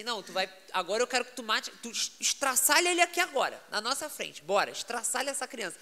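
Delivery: hammed-up pastor's challenge, rising in urgency; urgent retold command. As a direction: give the order forcefully, as a retold dare. Pastor's order to the demon acted.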